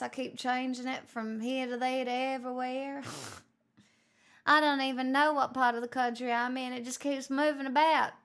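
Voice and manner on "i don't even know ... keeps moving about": lightly put-on wandering posh British accent, quick; a hint of posh British with drifting accent; mock mixed accent. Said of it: "do you like my mix of accents".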